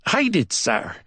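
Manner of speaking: high Barbadian voice, polite; Barbadian accent. A narrator's reading. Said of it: "unexpected British accent of the Barbados".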